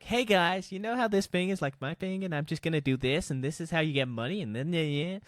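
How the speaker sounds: YouTuber impersonation. Retold or imitated. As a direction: hype it up like a sponsored ad. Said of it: "Great impersonation there".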